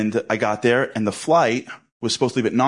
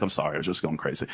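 lower, softer mumble; sheepish apology; 5 semitones lower, 7 dB quieter, faster than usual. Retold or imitated. Husband apologizing to wife who said relax, softer and sheepish. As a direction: back down embarrassed.

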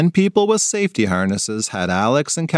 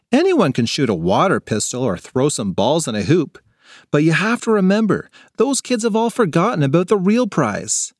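a touch higher, earnest and determined; rally the team against distractions; lightly voiced girl getting fired up; 5 semitones higher than usual.

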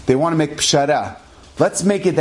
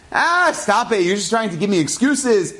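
higher, scoffing brush-off; dismissive wife; 4 semitones higher than usual. Retold or imitated. Wife scoffing at her husband's failing eyesight, higher and dismissive. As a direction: wave away his excuse.

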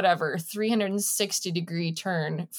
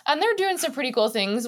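laughing; 6 semitones higher, 3 dB louder, faster than usual. Real, not acted. Still laughing.

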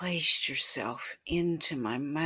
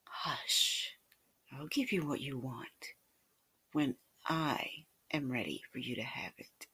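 hushed whisper; 5 dB quieter than usual. Acted. Lover teasingly calms narrator.

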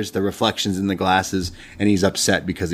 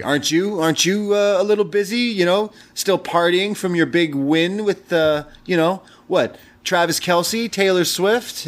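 mock teasing jab; 8 semitones higher than usual. Retold Braun teasing Baron back.

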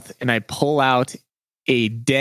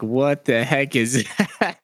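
laughing quote; slower than usual. Retold or imitated. Friends quoted finding spider.

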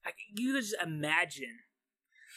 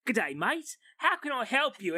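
bad Australian accent; 5 semitones higher than usual. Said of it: "using bad Australian accents".

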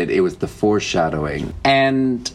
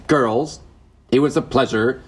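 put-on Dutch accent; 4 semitones higher than usual. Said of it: "In my Dutch accent".

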